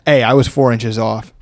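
voice crack. Real, not acted. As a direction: voice cracks on the words. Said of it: "Voice crack?".

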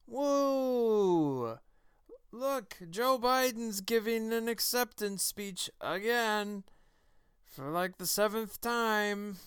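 a hint of Plinkett's whiny gloating, drawn out; Mister Plinkett impression. Host mocking the media in a light Plinkett voice, slow and sarcastic. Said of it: "my best attempt at a Mister Plinkett voice".

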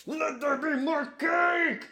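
high, slow mock-divine proclamation; voice of the Lord. Joking about the cake, a high, slow mock proclamation from the Lord. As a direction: proclaim it like a hammed-up God. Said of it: "And then the Lord said".

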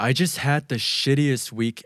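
slow, careful model line; slow example read. Shown as a demonstration. Teacher reads the sample dialogue very slowly. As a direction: spell out the line slowly for learners. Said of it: "dialogue example read slowly".

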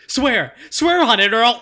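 high, loud enraged yell; furious shout. Acted. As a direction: scream the demand in rage. Raging boy shakes his friend.

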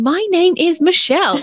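high, exaggerated mock introduction; mocking own delivery. Host poking fun at how she introduced herself, high mock delivery. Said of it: "I said it like that then".

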